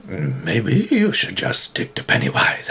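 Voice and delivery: unvoiced mocking whisper; whisper aside. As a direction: whisper a teasing aside to yourself. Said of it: "self-heckle in another voice".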